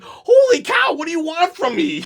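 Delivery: high-pitched, hammed-up outburst; exasperated mock shout. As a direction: shout it like you're fed up with being pestered. Acting exasperated excuse-maker being pestered.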